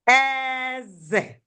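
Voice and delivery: "Eze" with a long high first vowel, falling on "ze"; high-tone "king" pronunciation. Shown as a demonstration. Teacher contrasting two meanings, "Eze" as king, high then falling. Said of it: "it has different sounds and different meaning".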